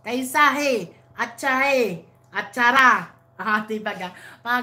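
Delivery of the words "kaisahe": Kaisahe with the stress on the second syllable, falling; careful repeat of Kaisahe, stressed on ai and falling at the end; saying it the Indian way. Shown as a demonstration. Repeating a greeting from India in its Indian pronunciation. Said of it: "Ang sa India na how are you ay kaisahe".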